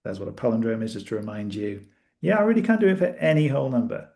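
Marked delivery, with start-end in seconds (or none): 2.2-4.1 ringleader voice. Acted. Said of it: "old-timey, uh, ringleader voice".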